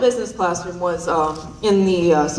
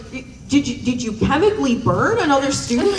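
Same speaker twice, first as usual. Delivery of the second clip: laughing disbelief; 6 semitones higher than usual. Retold or imitated. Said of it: "And she's like".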